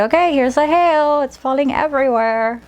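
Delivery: put-on playful game voice for the child. Shown as a demonstration. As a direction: make the hail fun for the child. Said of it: "And say".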